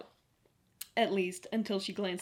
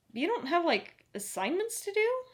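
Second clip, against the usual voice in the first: incredulous; 11 semitones higher, 4 dB louder than usual. Acted. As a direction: ask it half horrified. Izzy horrified at Sam's sacrifice.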